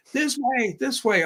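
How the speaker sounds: calling out. Retold or imitated. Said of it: "all in Spanish".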